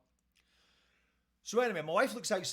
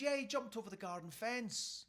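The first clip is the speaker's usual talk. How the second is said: neighbour; 5 semitones higher than usual. Retold or imitated. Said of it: "The neighbour says".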